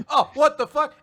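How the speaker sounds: high, loud startled outburst; mock shock. Retelling his reaction to Gelda, loud mock shock. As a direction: imitate a freaked-out reaction.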